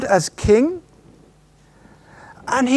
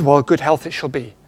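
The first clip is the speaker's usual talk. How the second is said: a hint of a lower, grand genie; genie granting a wish; 7 semitones lower than usual. Preacher voicing the genie to the wisher, lightly lower. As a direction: lightly drop into a lordly genie. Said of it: "And the genie says".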